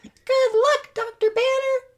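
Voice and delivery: put-on very high falsetto young woman. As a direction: squeak it up high. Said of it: "My voice breaks every time".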